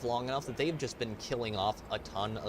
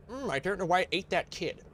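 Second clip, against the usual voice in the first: clueless pit bull owner; 7 semitones higher than usual. Retold or imitated. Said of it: "and is then like".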